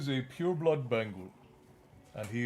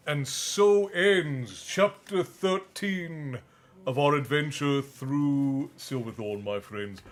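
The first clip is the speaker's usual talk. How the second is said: chapter sign-off; much slower than usual. A narrator's reading. Closing the chapter reading.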